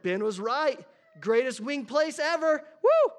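loud, high, thrilled restaurant fan; excited rave. Retold or imitated. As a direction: cheer it like the best meal ever. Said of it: "you got so excited".

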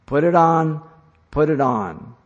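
loud, high stressed order; emphatic command. Shown as a demonstration. Preacher showing the verb's emphasis, loud commanding order. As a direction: say it with full emphasis. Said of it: "The verb is emphatic".

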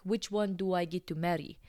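imitated Russian customer joking; cheeky question in a Russian accent; thick Russian accent. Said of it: "with a thick Russian accent".

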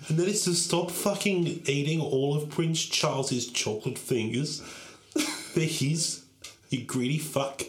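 lightly voiced dying old queen. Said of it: "it's like she's in the room".

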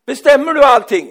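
put-on high, shouted childish challenge; outraged child. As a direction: burst out like an indignant kid. (högt, upprört barnskrik)

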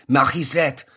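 "Morissette" with a guttural French R; "Morissette" with a mock French R; French-style MORISSETTE. Shown as a demonstration. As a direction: pronounce "Morissette" like a French name. Repeats the surname in French style.

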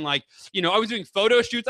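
normal talking voice

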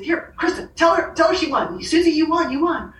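high, urgent insistence through tears; bawling friend urging the editor, overjoyed; tearful excitement. Retold or imitated. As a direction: plead with the editor to tell her. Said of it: "I'm bawling".

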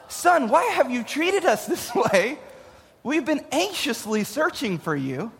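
mock-polite mother. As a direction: lilt it upward, too composed to be believed. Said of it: "responded quite like Mary did?".

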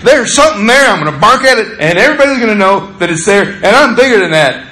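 dog's bark voice. Retold or imitated. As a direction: voice the little dog announcing danger. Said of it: "That's what he's saying".

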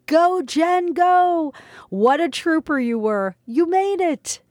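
high, bright shouts of praise; playful heavenly cheer; cheering angel friends. Acted. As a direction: whoop her on like a crowd of spirits. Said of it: "My angel friends guffawed and howled".

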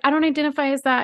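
high, prissy mock complaint; hammed-up indignant girl voice; mock offended girl. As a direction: mimic her taking offense. Mimicking girl.

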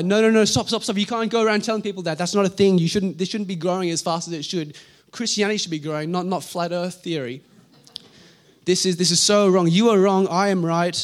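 loud, rising outrage at the heretics; indignant protest. Pretend. A church leader yelling at flat earth preachers, outraged. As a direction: shout them down in disbelief.

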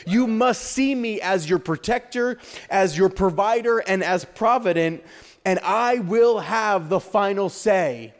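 emphatic, declarative preaching; impassioned preaching. Real, not acted. Preacher gives the church God's promise of the final say, emphatic preaching. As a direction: drive each promise home, slowing on the key lines.

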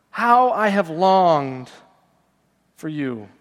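slow, aching, fading to a hush; pained longing. Acted. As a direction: voice God's longing, drawn out and sinking. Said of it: "you can hear the pain in God's voice".

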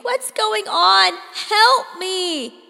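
loud, high, slow desperate plea; terrified cry for rescue; panicked pleading. A narrator's reading. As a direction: beg for help as you're hauled off. Teen being dragged down hallway.

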